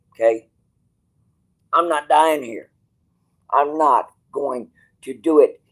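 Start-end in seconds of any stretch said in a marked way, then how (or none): 1.7-5.6 raised, defiant declaration; stubborn outburst; defiant louder. Real, not acted. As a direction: say it like you mean it, louder. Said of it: "Kiss my ass".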